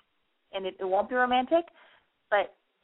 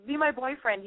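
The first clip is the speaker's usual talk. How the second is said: desperate plea; 4 semitones higher than usual. Pretend. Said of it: "you didn't go like".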